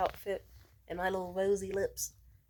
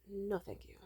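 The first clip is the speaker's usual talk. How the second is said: soft whispered no thanks; whispered refusal; 7 dB quieter than usual. Real, not acted.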